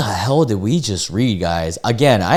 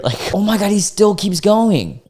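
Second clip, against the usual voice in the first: laughing disbelief; 10 semitones higher than usual. Real, not acted. Laughing at more messages.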